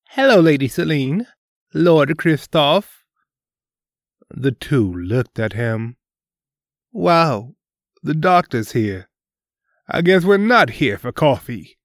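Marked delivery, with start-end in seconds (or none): 0.1-3.0 raised, deferential greeting; bow and greet them politely; formal greeting. Acted. Doctor bows, greets royal twins. 6.9-11.8 higher, amused and irreverent; cocky. Acted. Irreverent prince mocks doctor.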